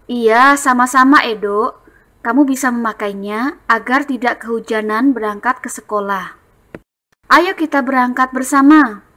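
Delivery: brighter friendly storybook voice; reading dialogue. Shown as a demonstration. Teacher reading Benny's friendly reply. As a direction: invite him to walk together. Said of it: "Bacanya dengan intonasi yang tepat".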